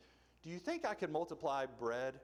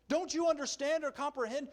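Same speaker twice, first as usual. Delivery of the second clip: higher, louder exasperated plea; frustrated Jesus; 13 semitones higher, 7 dB louder than usual. Retold or imitated. Jesus pressing his disciples, exasperated and raised. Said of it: "His frustration is clear".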